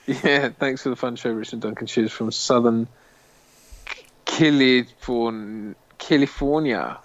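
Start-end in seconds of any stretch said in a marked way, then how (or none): 2.3-7.0 California said slowly, a bit like South Africa; South African-sounding. Real, not acted. Signing off a viewer's message from Southern California, faintly South African-sounding. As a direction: stretch out "California" with a slight South African ring. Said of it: "I sort of said it like South Africa".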